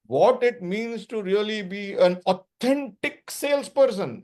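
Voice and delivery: slow, leaning hard on "authentic"; stress on authentic. Shown as a demonstration. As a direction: press the word "authentic" as the key point. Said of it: "putting emphasis on the word authentic".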